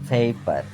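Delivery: পেপার as aspirated "pheypar"; corrected pronunciation. Shown as a demonstration. Teacher repeating the correct form, পেপার as "pheypar". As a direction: puff the p and glide to "ey" in পেপার. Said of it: "এটা হয় সঠিক উচ্চারণ".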